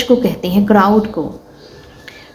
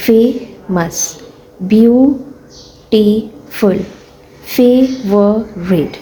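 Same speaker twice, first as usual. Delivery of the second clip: slow, drawn out फेमस; teacher modelling फेमस for the class; slow syllable demo; much slower than usual. Shown as a demonstration. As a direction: sound out फेमस slowly in two parts. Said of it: "आगे है फेमस".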